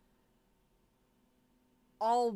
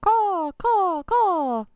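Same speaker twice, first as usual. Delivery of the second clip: loud high bird cawing; shrill mock caw; kenku caw; 8 semitones higher, 9 dB louder, much slower than usual. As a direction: squawk like a crow-bird. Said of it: "Joran is a Kenku!".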